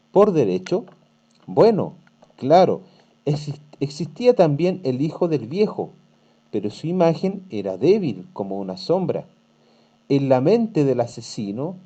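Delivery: teacher reading a tale to pupils, storytelling voice; story reading. Acted. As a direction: read the passage to students, lightly dramatic. Teacher reads story aloud.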